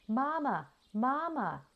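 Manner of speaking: put-on high, tiny peeping baby-goose voice; little gosling peeping. A narrator's reading. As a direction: peep it like a newborn gosling calling its mother. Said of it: "he peeped".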